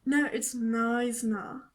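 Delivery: Knysna said slow as "nize-nah"; friend's wrong Knysna. Retold or imitated. Mocking the friend's slow wrong Knysna. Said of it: "my friend was like".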